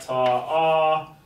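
ta then one held ah; counted half note chant; rhythm syllables. Shown as a demonstration. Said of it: "Half note".

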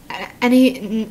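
tripping on the first sounds; stuttering. Real, not acted. Reader too rattled to read to Annie, stuttering. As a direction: stumble over the name, restarting it. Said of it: "I'm, like, stuttering".

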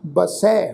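ਬਸੈ ending on an open ai; pronunciation demo. Shown as a demonstration. Teacher showing the dulavan on sassa, careful demo of ਬਸੈ. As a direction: model ਬਸੈ with a clear final ai. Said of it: "ਪਾਠ ਉਚਾਰਨ ਕਰਨਾ ਹੈ ਜੀ".

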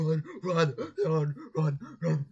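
loud, urgent repeated cries; urgent panic. Pretend. Viewer urges character away from zombies, loud panic. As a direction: urge them to flee, each word punched.

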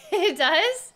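tinny voice through a bad mic; like talking inside a metal tank; tin can voice. Real, not acted. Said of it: "I sound like I'm in a tin can".

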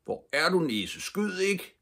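high, desperate calling voice; scared plea called into the forest; frightened shout. A narrator's reading. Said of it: "sin egen bange råb".

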